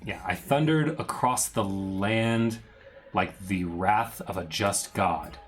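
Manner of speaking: slow, solemn villain monologue; dramatic reading. Acted. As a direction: read it like an old curse. Reads Strahd's journal slowly.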